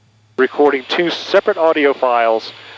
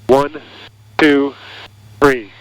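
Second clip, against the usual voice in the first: intercom cable recording; much slower than usual. Shown as a demonstration. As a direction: count through the cockpit intercom. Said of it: "And then finally, the GoPro".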